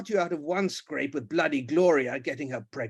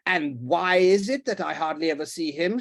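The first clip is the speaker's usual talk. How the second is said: a touch louder retort; mild shout; 3 semitones higher, 4 dB louder than usual. Acted. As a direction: snap back at her. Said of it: "shouted the Duke".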